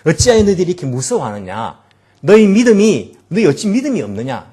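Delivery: a touch of stern scolding; mild rebuke. Retold or imitated. Jesus to frightened disciples, mild stern rebuke. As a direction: chide them for their fear. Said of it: "예수님께서 꾸짖고 있는".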